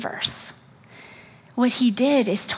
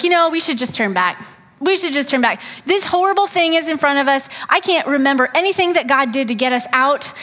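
whiny, panicky grumble, rising higher and louder; mock complaining; 4 semitones higher, 3 dB louder, faster than usual. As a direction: act out a fearful people begging to turn back. Israelites complaining, wanting to turn back.

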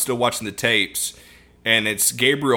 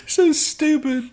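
laughing; much slower than usual. Real, not acted. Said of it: "So dumb".

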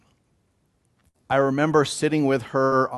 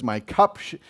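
psalm quote, building; 6 semitones higher, 7 dB louder than usual. Acted. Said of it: "As David says".

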